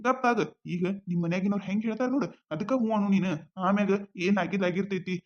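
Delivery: calm her down gently, low and soft; soothing. Acted. He comforts crying girlfriend. (ಅಳುವ ಜಾನುವನ್ನು ಸಮಾಧಾನಿಸುವ ರವಿ, ಮೃದುವಾದ ಧ್ವನಿ)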